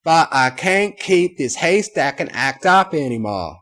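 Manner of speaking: loud Southern twang bursting free. A narrator's reading. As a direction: break out of the posh act into a country accent. Drops the fancy voice.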